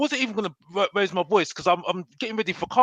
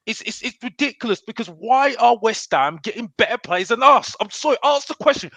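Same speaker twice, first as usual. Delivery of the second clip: real annoyance, higher-pitched rant; annoyed; 4 semitones higher than usual. Real, not acted. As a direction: demand an answer, exasperated and raised in pitch. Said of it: "I'm annoyed by it".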